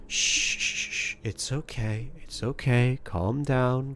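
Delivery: soothing shush. Acted. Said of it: "and she says".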